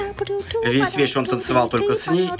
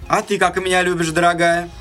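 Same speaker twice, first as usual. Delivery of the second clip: higher-pitched, coaxing father's question; father questioning daughter; 5 semitones higher than usual. Acted. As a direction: ask your darling in a raised voice. Father questions his middle daughter. (отец повыше голосом спрашивает дочь)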